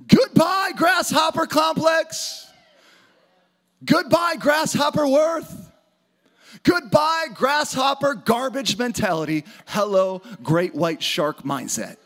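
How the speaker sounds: preacher shouting the room up; rallying shout. Real, not acted. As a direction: whip the crowd into cheering. Preacher rallying crowd with chant.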